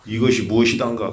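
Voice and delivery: lightly voiced Jeolla dialect. Shown as a demonstration. Monk shows how the hwadu sounds in Jeolla speech, Jeolla dialect. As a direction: put on a hint of Jeolla speech. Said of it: "전라도 말로 하면은".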